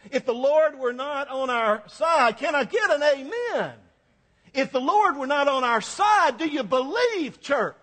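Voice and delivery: rally the church like a gospel preacher; Black preacher call-and-response. Retold or imitated. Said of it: "We put it in kind of African-American language".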